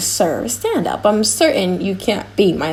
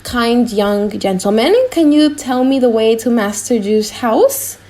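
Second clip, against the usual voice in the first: put-on a frail old father, humbly asking directions; old father's voice; 2 semitones higher than usual.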